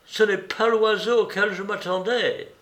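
lightly voiced Holmes, a touch self-mocking; Holmes, rueful. A narrator's reading. Holmes owning his blunder to Watson, wryly. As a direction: admit the mistake with a wry lift.

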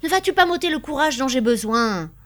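loud, high reproachful plea; crying out. A narrator's reading. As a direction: protest forcefully. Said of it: "s'écria Birotteau".

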